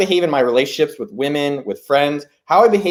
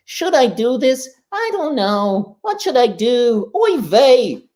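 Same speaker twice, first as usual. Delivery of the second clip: put-on higher, slow, whiny Jewish-accented fretting; exaggerated Jewish accent, higher and slow, fretting over a choice; mock Jewish accent; 7 semitones higher, much slower than usual. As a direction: play up a fretful Jewish accent, dragging the words. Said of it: "I'm gonna do it in a Jewy voice".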